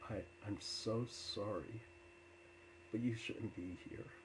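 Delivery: retold remorse, understated; earnest and heavy with regret, mildly; sorrowful. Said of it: "there was so much sorrow in him".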